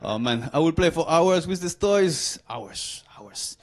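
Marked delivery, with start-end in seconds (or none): 2.5-3.6 much lower, much softer; fading away with nostalgia; dreamy echo. Acted. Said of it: "dreamy echo of hours".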